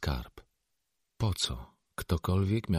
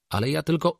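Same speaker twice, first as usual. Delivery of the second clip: put-on high, louder child's protest; 11 semitones higher, 6 dB louder than usual. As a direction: plead in a raised little-girl pitch. Child protests, gets cut off.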